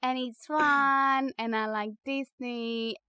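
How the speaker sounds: slow, stretched-out halting delivery; mock halting interview answer; imitating rubbish French. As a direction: drag the words out like a struggling language learner. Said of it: "in rubbish French".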